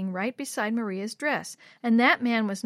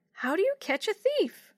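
put-on high, innocent little kid voice; very high-pitched child character; 11 semitones higher than usual. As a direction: ask like a puzzled small child. Young Yo-Yo voiced in story.

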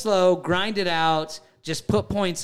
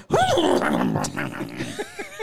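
ram noise. Shown as a demonstration. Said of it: "will you do the one you've been doing?".

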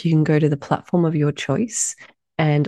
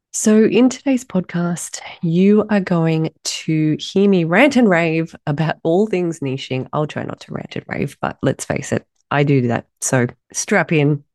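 husky voice. Real, not acted. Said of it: "excuse my very husky voice".

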